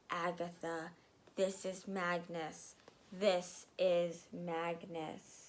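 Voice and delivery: soft, low, slow ghost; ghostly voice. Acted. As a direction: speak like a spirit from beyond. Ghost speaks through chalk.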